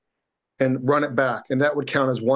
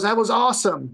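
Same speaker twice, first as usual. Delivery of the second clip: imitating happy trainer; 7 semitones higher than usual. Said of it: "He was all happy".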